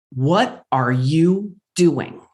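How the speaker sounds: inner voice. Retold or imitated. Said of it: "Little voice inside my head says".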